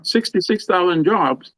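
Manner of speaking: slow, weighty Sixty-six thousand; emphatic. Real, not acted. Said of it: "Just think about that".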